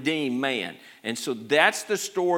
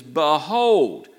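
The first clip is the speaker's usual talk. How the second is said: loud proclamation; 6 dB louder than usual. Acted. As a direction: ring out Behold. Elder's proclamation in sermon.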